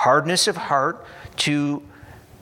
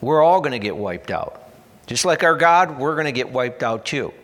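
mock panic; 4 dB louder than usual. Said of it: "they cry out".

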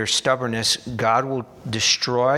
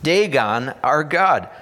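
louder, higher panicked plea; raised voice of a town in panic, pleading to send the ark away; mock cry of alarm; 4 semitones higher, 5 dB louder than usual. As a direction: cry out like frightened Philistines begging. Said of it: "they cried out".

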